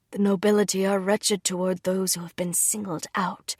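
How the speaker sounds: whispered warning; grim whisper. Acted. Father warning about the nobility.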